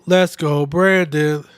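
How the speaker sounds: dry sarcastic cheer. Pretend. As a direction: say it like you don't mean it. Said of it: "I say that sarcastically".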